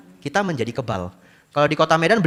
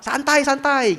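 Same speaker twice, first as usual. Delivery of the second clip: mock-relaxed reply; 14 semitones higher, 3 dB louder, much slower than usual. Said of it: "Jawabnya apa".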